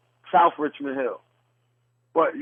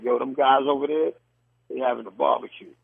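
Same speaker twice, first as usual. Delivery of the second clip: New York accent, plainly stated; terjemahan logat New York. Shown as a demonstration. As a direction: translate it into everyday New York talk. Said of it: "So translation".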